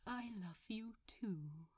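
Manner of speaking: whisper. Acted. Tender love confession.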